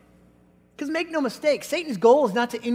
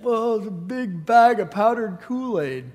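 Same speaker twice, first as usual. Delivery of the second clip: put-on sheepish kid.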